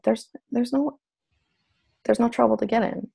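soft reassuring self-talk; calm yourself down gently; self-soothing. Retold or imitated. Alone in the car, soothing herself, soft and reassuring. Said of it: "talking to myself".

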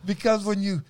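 high-pitched, carried-away excitement; genuinely excited. Real, not acted. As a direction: let your pitch jump with excitement. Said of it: "I get so excited".

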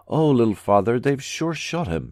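loud wailing lament, slowing down. A narrator's reading. Distraught wife wails to the commissar about her husband. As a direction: wail it out in grief. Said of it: "she wailed".

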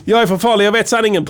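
high put-on melodrama; mock dramatic victim. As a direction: declare it as a self-important dying man. Acting out the poisoned victim.

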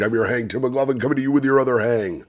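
muffled dark swallowed vowels; Bane voice. Acted. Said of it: "You sound like you swallowed someone".

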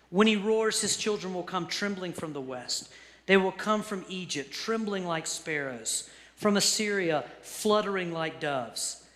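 measured, emphatic proclamation of God's words; impassioned scripture reading. Acted. Reads God's words from Hosea.

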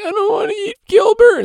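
put-on very high, loud little-kid whine; squeaky protesting child; whiny kid brother. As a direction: pitch way up like a scared little brother. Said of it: "the brother being like".

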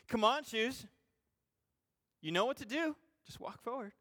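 mock pleading with a pair of shoes; coaxing shoes. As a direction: coax the shoes like a stubborn child.

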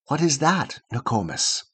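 put-on soft hushed child's question, dropping away; child asking grandmother softly at night; whispered question. A narrator's reading. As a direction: ask it under your breath.

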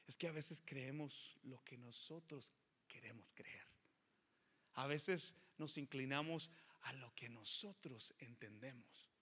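slow hushed fatherly counsel; gentle fatherly advice. Retold or imitated. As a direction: soften into a father's gentle whisper. Father gently counsels his son.

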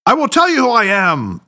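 mild thundering proclamation. A narrator's reading. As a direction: thunder it out like a patrician. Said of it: "thundered Harry in his deep patrician voice".

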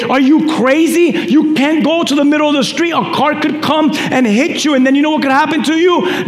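put-on mildly worked-up parent telling off a child; scolding parent. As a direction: scold in a quick, insistent run. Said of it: "you scold them and say".

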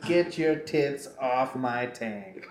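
slow mock grumble of a big beast; giant pig creature. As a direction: drag it out like an annoyed beast, amused. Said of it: "that giant pig thing was like".

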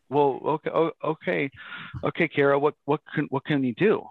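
mock clueless, hesitant and stumbling; playing dumb. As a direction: feign having no idea, fumbling for words. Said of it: "I just almost play dumb".

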